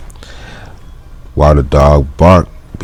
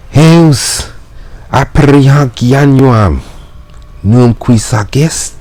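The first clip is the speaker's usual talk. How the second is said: mailman shouting; 10 semitones higher than usual. Acted. Mailman shouting at the villa door. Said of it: "and shouts".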